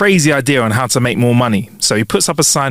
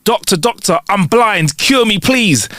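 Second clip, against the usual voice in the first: higher-pitched mock plea; pleading patient; 7 semitones higher, slower than usual. Lawyer faking blindness to the doctor, higher and pleading. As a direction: beg for help with put-on urgency.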